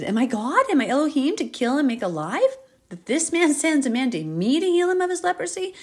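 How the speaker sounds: high, loud, rising alarm; panicked king. Acted. King of Israel panicking over the letter. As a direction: cry out like a cornered king.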